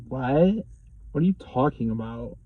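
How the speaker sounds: imitating feigned innocence, puzzled rise on "What"; understated, put-on cluelessness; playing dumb. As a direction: act as if you have no idea. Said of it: "totally just, like, playing dumb".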